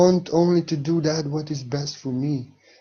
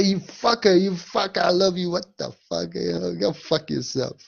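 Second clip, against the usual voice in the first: affectionate mock insult; 5 semitones higher than usual. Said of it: "You can say".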